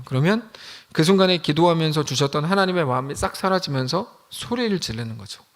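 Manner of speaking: ordinary delivery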